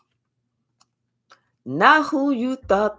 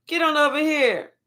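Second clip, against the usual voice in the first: loud, higher barked command of a Mexican cop; mock order from a border officer; federales; 6 semitones higher, 4 dB louder than usual. Mexican federales calling someone over, loud mock command. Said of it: "the Mexican federales was like".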